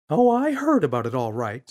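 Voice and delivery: disapproving mum at dinner; mother's voice. Acted. Mother answers Father.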